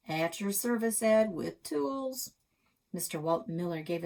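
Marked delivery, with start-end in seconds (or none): 0.1-2.3 jaunty greeting. Acted. Old man salutes jokingly.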